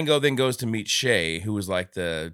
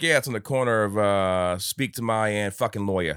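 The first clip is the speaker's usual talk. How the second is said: put-on light Brooklyn accent; a hint of Brooklyn tough guy. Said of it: "the Brooklyn accent like you just did".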